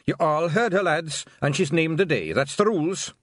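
loud, high Scots call to the lads; rally the lads loudly; rallying shout. Acted. Pixie leader rallying lads.

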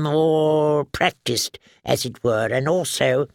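a jittery little man stammering excuses; nervous alchemist. Acted. Halin the nervous pyromancer.

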